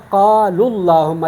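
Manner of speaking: "اللہم" with a heavy, dark L; slow recitation, full L in "اللہم"; full lam. Shown as a demonstration. Teacher gives another example, heavy L in "اللہم". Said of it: "اگر میں اس کو پر پڑھوں گا".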